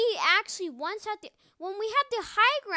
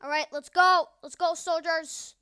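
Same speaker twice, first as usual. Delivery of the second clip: rallying call; 7 dB louder than usual. Real, not acted. Rallying teammates.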